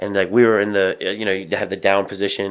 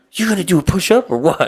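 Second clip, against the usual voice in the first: play-acted, mad, aggressive, needling, pitched-up; 10 semitones higher, 4 dB louder than usual. Speaker recounts a guy challenging him during push-ups: imitating a mad guy's challenge. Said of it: "he was like mad".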